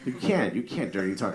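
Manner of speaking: ordinary talk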